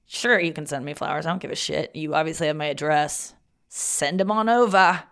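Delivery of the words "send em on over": slow, accidental Australian lilt; Australian accent. Pretend. Inviting Matt to send flowers, slipping into Australian. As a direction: slip into a drawn-out Australian accent. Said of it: "I got Australian on that".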